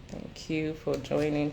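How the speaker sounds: talking through a cold; stuffed up with a cold; head cold. Real, not acted. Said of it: "Sorry, I've got cold".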